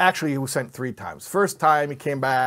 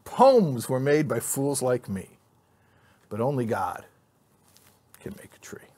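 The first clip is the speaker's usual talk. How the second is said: reciting a poem to the class, lightly dramatic; teacher recites Trees to the congregation, a touch of poetic delivery; poem recital. Acted. A hint of poetic recital, hushed at the end.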